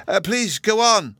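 put-on high, drawn-out childish plea; exclaiming. A narrator's reading. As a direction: urge it on like excited children. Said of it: "both children exclaimed".

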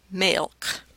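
"milk" said as "maylk"; long-a pronunciation. Shown as a demonstration. Lecturer offering students options, "milk" said as "maylk". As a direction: say "milk" with the vowel of "may". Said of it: "a pronunciation like milk".

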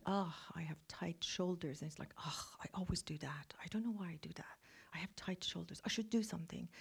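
quiet, dutiful self-talk under the breath; a hint of a tired, mechanical inner voice. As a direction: mutter it like a chore. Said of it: "the energy is very sort of mechanical".

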